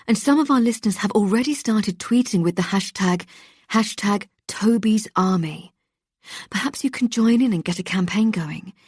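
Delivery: rally the listeners like a keen host; eager radio presenter. Acted.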